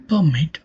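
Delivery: "permit" stressed on "mit"; light "per", weighted "mit" in "permit"; stress on second syllable. Shown as a demonstration. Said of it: "the stress falls on the second syllable".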